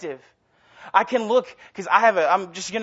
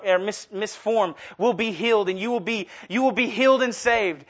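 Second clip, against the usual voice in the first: mock televangelist. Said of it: "he just said".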